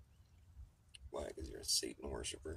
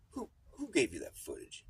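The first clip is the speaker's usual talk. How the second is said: higher, louder defensive snap; guilty defensive; 11 semitones higher, 4 dB louder than usual. Retold or imitated. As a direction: sound caught out and guilty. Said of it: "he responded like someone who's guilty".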